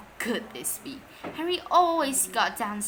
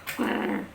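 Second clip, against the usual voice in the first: growl. Acted.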